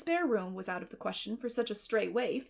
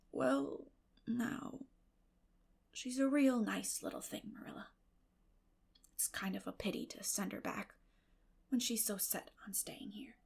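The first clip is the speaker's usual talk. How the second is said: put-on soft, hesitant old farmer; gentle mumbled old man voice; shy old man; 6 dB quieter than usual. Shy old Matthew speaks.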